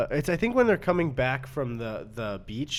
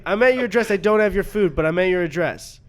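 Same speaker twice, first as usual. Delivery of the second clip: imitating delivery guy; 5 semitones higher, 8 dB louder than usual. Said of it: "he's just like".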